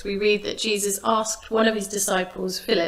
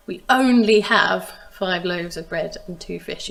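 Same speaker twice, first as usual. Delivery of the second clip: complaining disciples; 3 dB louder than usual. Retold or imitated. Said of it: "You can almost hear them complaining".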